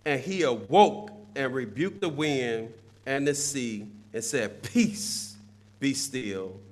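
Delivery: measured, subdued reading from scripture. Acted. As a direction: read the Bible text out evenly, softening toward the end. The text goes on to read.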